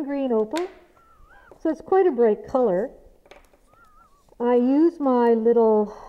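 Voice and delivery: muffled behind a dust mask; through a face mask. Real, not acted. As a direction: talk through a mask over the mouth. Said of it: "this is what I sound like with a mask on".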